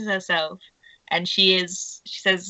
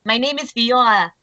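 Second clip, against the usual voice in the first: put-on French accent, slightly high; French-accented character voice; 4 semitones higher, 5 dB louder than usual. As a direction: introduce yourself in a French accent. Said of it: "his French accent".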